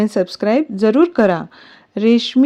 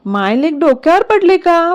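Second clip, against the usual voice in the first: higher-pitched, mildly exasperated question; irritated retort; 6 semitones higher than usual. A narrator's reading. Daughter snaps back at mother and sister, mildly irritated. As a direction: toss it back, annoyed. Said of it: "प्रांजल चिडून म्हणते".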